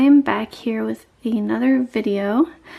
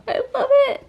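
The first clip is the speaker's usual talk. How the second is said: laughing delight; 13 semitones higher, much faster than usual. Real, not acted. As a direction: giggle then high gushing line. Laughing delight at cute item.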